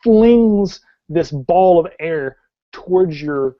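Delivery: animated scene setting with drawn-out action words; dramatic tabletop storytelling; game master narration. Acted. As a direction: paint the action vividly, stretching key verbs.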